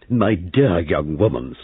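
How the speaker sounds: slow, cutting snap; snapping. Acted. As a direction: put the young woman down. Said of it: "snapped Missus Boyle".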